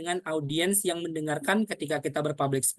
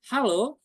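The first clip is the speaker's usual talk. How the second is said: higher "Halo" with a rising lilt; greeting intonation; 4 semitones higher than usual. Shown as a demonstration. Coach demonstrates opening a public speech, "Halo" lifted. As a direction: lift "Halo" upward to greet a crowd. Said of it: "merupakan yang namanya intonasi".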